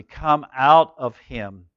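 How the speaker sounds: slow, stern command. Acted. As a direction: order the demon out, slowly and firmly. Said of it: "Jesus said sternly".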